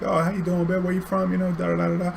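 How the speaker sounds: high-pitched, chatty cabbie welcome; jazzed-up patter. Retold or imitated. Cabbie greeting a new passenger from Australia, jazzed up. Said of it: "I jazz it up for 'em".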